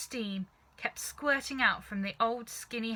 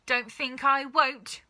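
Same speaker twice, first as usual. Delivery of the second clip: put-on gruff old grandma; 5 semitones higher, 6 dB louder, slower than usual. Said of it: "Grandma said".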